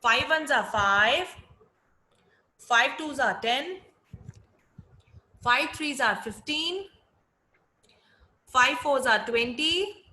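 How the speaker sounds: chanted times table, each line rising; sing song rote recitation. Shown as a demonstration. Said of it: "Again, repeat after me".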